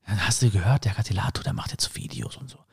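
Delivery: fading into a hushed whisper, gossip about me. Retold or imitated. Students gossiping behind my back, whispering. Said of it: "Die werden tuscheln".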